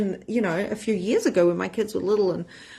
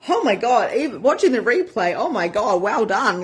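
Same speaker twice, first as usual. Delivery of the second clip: louder, higher gushing; excited; 3 semitones higher, 4 dB louder than usual. Real, not acted. Coach gushing over members watching replays, excited. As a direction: burst out with delight.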